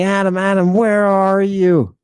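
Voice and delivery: calling voice. Retold or imitated. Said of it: "this voice saying".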